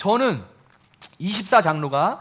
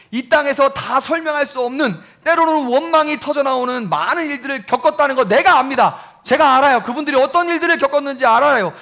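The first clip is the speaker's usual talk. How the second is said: higher and louder, pressing and heartfelt; fervent preaching; 7 semitones higher, 5 dB louder than usual. Acted. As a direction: preach it home with conviction. Preaching at full force.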